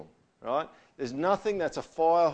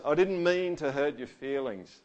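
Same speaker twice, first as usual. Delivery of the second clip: grudging apology; 2 semitones higher than usual. Retold or imitated. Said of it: "What about this one?".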